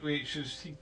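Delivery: ordinary talk, nothing marked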